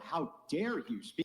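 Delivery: high, slow, indignant mock voice; evil queen. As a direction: sneer it like an offended queen. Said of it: "the first thing you do is go".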